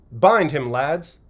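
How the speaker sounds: loud command to the lads; loud order. A narrator's reading. Tall lad ordering his mates to bind the publican, loud. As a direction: urge the men to seize him.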